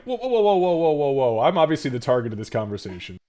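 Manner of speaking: hammed-up alarm, settling as it speeds up; startled protest. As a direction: back away from an accusation, half laughing. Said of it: "and you're like".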